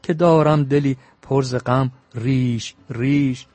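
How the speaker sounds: put-on measured, chanting recital of old verse; poem recitation. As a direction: declaim the epic lines like a bard.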